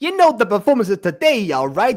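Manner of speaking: swooping, high-pitched, sing-song gangster voice. Asked to do a gangster voice, the speaker tries again: Starkid gangster impression. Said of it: "another Starkid impression".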